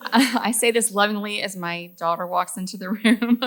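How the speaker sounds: laughing through an aside; amused aside. Real, not acted. Mother teasing as her daughter walks in, laughing. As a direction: let a chuckle run into the words.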